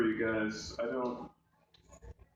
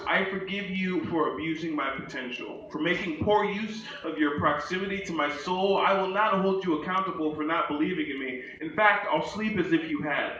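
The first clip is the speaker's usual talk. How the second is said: measured spoken-word delivery; lightly performed poetry reading; poem recitation; 4 semitones higher than usual. Acted.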